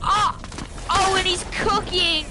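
excited shout. Real, not acted. Hype over teammate's play.

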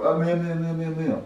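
high cartoon squeaks; rat's meowing. Shown as a demonstration. Director shows the thrown rat, squeaking. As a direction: squeak a string of meows. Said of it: "And they go".

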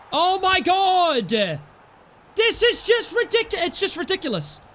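high, slow, drawn-out disbelief; stunned disbelief. Real, not acted. Gamer watching his striker fail, stretched high disbelief. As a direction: groan it out high and slow, can't believe it.

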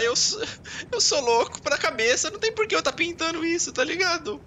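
mock-crazy squeaky rant; goofy high voice. Rambling excitedly about his painting.

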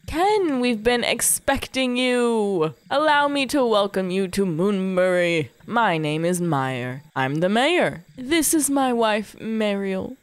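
grand, drawn-out welcome from a town mayor; lightly voiced mayor greeting a guest; welcoming mayor. Mayor welcomes the newcomer to town, formal welcome.

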